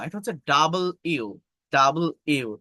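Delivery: ডাবল ইউ said as two clear parts; ডাবল ইউ দুই ভাগে স্পষ্ট; correct letter name. Shown as a demonstration. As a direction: split it: ডাবল, then ইউ. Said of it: "ডাবল ইউ, ডাব্লিউ না".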